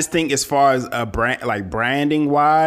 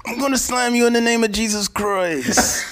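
preacher voice; 9 semitones higher than usual. Pretend. Macho Man preacher line.

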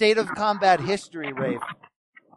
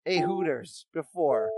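dramatic introduction. Acted. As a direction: draw out the reveal like a showman.

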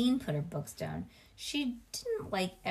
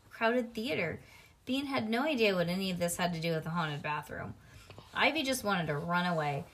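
plain reading voice

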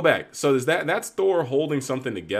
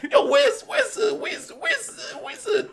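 extremely high squeaky voice, laughing; comic villain calling the round goblin, very high and laughing; goofy creature hunter. Retold or imitated. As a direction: squeal it out, cracking up. Character hunting the goblin.

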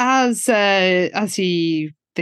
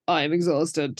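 lower, softer, drained; worn-out sigh; 6 semitones lower, 7 dB quieter than usual. Retold or imitated. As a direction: let the tiredness sink the words. Liz worn out after the night.

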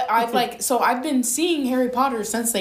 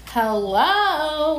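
hammed-up bad British accent; terrible British accent; 4 semitones higher, slower than usual. Hosts open the show with "hello, Governor", terrible British accent. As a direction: greet like a badly faked British guv'nor. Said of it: "That was a terrible British accent".

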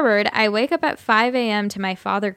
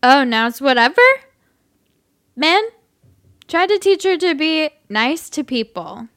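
put-on loud sloppy drunk man; 6 semitones higher, 4 dB louder than usual. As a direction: whine it like a drunk. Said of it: "I'll just do my drunk voice".

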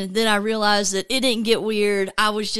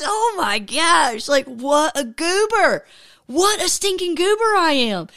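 laughing at himself; 6 semitones higher, slower than usual. Real, not acted.

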